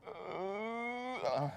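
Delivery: high little startled 'uh', soft; startled toddler whimper. Retold or imitated. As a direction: imitate a scared kid's whimper. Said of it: "gave me the whole, like".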